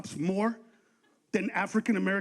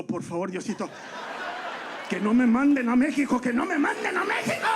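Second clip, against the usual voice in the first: mock pleading prayer. Immigrant pulled over begs God, mock pleading. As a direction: beg God not to be sent back, mock desperate. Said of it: "go like this and go".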